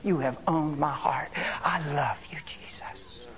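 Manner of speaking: earnest, lightly hushed thanksgiving; heartfelt prayer. Acted. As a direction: pray tenderly, in your own voice. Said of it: "you lift your hands right where you're at and you say".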